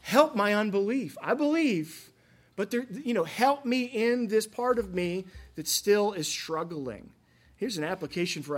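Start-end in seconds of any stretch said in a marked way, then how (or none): 0.0-7.1 a lightly raised, pleading voice; mild pleading, higher and a touch louder; earnest plea. Retold or imitated. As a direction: ask for help, honest and raw. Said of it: "willing to say out loud".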